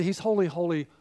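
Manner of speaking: ordinary talk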